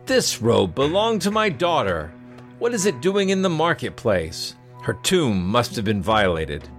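a prince shocked to find his daughter's robe; alarmed prince. Acted. Prince voiced in the story.

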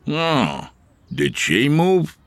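high, slow curious question; curious customer. Acted. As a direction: casually ask the follow-up. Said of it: "customer asks again".

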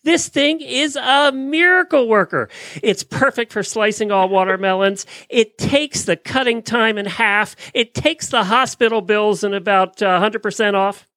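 hyped home shopping pitch; infomercial host. Pretend. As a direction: sell it like a late-night TV ad. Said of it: "I should be an infomercial dude".

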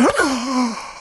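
high, drawn-out gasp of amazement; hammed-up awestruck gasp; mock gasp. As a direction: gasp like a stunned henchman. Co-conspirators react to Putin's reveal.

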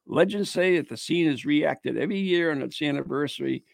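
measured read-aloud narration; ghost story read aloud. Acted. Host reading a Christmas Eve ghost tale, narrating. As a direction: read it out as a local legend.

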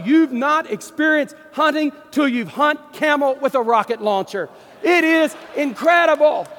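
loud, high, thrilled boasting; excited shout. Real, not acted. Pastor boasting to the crowd about camel hunting, excited shout. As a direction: shout it like the best hunt of your life.

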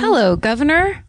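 put-on playful stage-British accent. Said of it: "I'll do British".

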